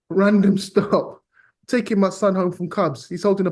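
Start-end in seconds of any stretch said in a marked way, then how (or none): 0.1-1.2 Random drawn out slow, laughing in disbelief; stress on Random. Real, not acted. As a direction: Random stretched high, a laugh before stop.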